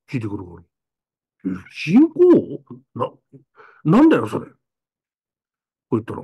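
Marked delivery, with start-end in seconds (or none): 1.9-4.5 驚いて聞き返す子供の声; high startled question; surprised. Retold or imitated. Child self quoted surprised. (子供の自分を演じて、驚いた高い声で)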